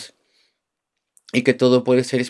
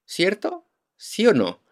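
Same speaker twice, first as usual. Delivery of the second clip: ironic; 2 semitones higher than usual. Retold or imitated. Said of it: "Es una ironía".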